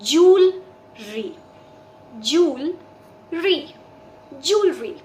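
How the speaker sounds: jewelry said slowly as JOOL-ree, two syllables; drawn-out teacher model of jewelry as jool-ree; correct pronunciation. Shown as a demonstration. Teacher to Hindi learners, slow model of jewelry as jool-ree. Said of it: "इस word का correct pronunciation is".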